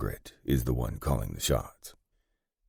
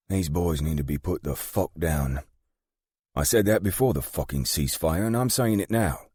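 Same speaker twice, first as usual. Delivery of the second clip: higher voice, climbing with insistence; exasperated British gang boss; 5 semitones higher than usual. Acted. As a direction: lay down the law as the fed-up woman boss.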